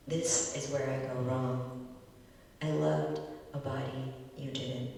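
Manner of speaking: measured, deliberate poetry reading; poem reading. Acted. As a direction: read it like an elegy at a reading. Poet reads elegy poem aloud.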